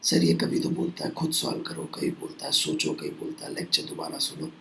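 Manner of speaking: low, hushed grumble, as if taken aside; confiding student complaint. Acted. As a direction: mimic a student complaining privately, very softly. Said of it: "अलग से ले जाके आपसे कोई पूछेगा".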